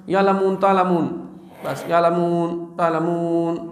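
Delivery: slurred, swallowed يعلمون تعلمون in a lightly mocking tone; a hint of a hasty Quran reciter; mocking a rushed hafiz. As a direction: lightly parody a careless reciter gabbling the verse. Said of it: "اکثر حفاظ اس طرح پڑھتے ہیں".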